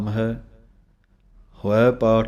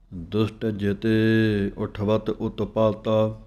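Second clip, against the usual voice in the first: slow, measured chanting of scripture; slow Gurbani recitation; slower than usual. Shown as a demonstration. Teacher reciting the verse slowly for students to follow. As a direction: recite each phrase slowly with pauses.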